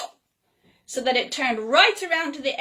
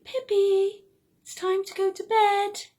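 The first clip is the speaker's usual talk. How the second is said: higher, sweet coaxing bedtime reminder; friendly; 9 semitones higher than usual. Pretend. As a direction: gently tell yourself it's bedtime, higher. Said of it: "in a really friendly way".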